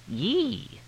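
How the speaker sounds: thin, high-pitched "yee"; squealed exclamation. Acted. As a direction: let out a drawn-out high squeal. Slaps himself on the cheek.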